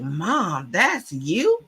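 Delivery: voicing an astonished kid, pitch swooping up; amazed child. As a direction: imitate a child's surprised question. Children amazed at her banner.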